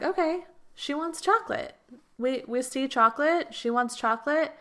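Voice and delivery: a cheerful cosmic listener noting the order; the universe voiced. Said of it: "And then the universe is like".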